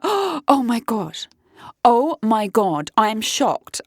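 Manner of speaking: gasp, then slow drawn-out shock; mock amazement. Drunk man meeting his dating match, mock amazement. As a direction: imitate someone overawed, stretching the words.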